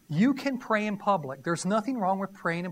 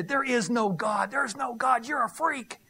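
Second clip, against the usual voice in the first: mocking atheist. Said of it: "talk to them and say".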